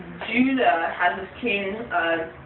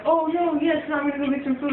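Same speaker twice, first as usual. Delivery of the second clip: excited glee; 7 semitones higher than usual. Retold or imitated. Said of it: "he's like".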